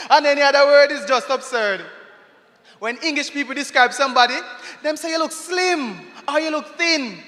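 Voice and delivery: rhythmic spoken-word poem; poem recital. Acted. Performer recites a poem to the crowd, rhythmic.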